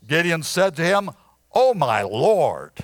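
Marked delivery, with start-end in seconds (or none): 1.5-2.7 OH and LORD drawn out with a deep drop in pitch; slow, falling emphasis on "Oh, my Lord"; emphatic. Acted. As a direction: stretch "Oh, my Lord" low and heavy. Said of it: "pick up the emphasis".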